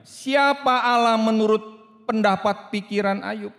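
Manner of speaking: loud, high challenging question; God asking. Acted. God turning the question back on Job, loud and challenging. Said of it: "Allah bertanya kepada Ayub".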